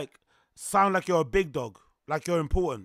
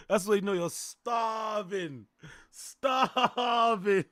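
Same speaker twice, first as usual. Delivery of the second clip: shouting; 4 semitones higher, much slower than usual. Real, not acted. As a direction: yell the punchline. Punchline shout.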